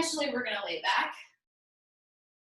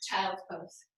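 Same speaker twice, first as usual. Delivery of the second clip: whispered cue; 9 semitones lower, 9 dB quieter than usual. Real, not acted. Cueing rest at the end.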